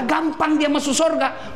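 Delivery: ordinary delivery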